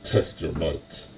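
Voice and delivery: slow, portentous arena-announcer line; ominous announcer voice. Acted. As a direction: intone it like a fight announcer, slowly. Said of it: "in a completely different voice".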